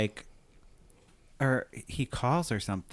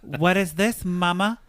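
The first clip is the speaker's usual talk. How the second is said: high-pitched, exasperated mock fury; mock outrage; 9 semitones higher, much slower than usual. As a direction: retell it as an over-the-top indignant daughter. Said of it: "like, getting very mad".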